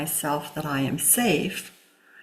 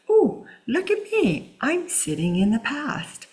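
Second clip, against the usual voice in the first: mock self-discovery; 6 semitones higher than usual. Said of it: "for you to recognize".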